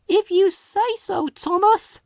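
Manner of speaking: high tired tram voice; weary. A narrator's reading. Flora giving in to Thomas, weary. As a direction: sigh it out, worn down. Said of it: "she said wearily".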